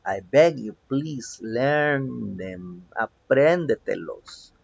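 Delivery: slow, drawn-out plea; pleading. Real, not acted. Teacher begs students to learn the verbs, slow pleading. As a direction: beg them, stretching the words out. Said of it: "es lo único que te suplico".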